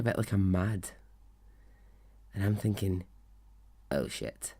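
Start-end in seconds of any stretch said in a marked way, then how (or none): 3.9-4.5 low, hushed aside to self; dismayed inner thought. Retold or imitated. Interviewer thinking she has got it wrong, dismayed. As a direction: sink into a soft, low mutter.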